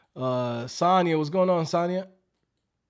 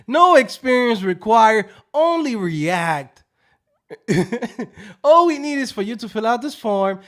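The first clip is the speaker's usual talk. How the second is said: scam recruiter voice; 3 semitones higher, 6 dB louder than usual. Retold or imitated. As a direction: sell it like a shady recruiter. Acts out scam call pitch.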